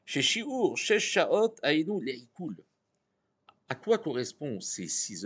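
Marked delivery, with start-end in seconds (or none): 0.1-2.6 Yiddish accent. Shown as a demonstration. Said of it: "mon accent yiddish".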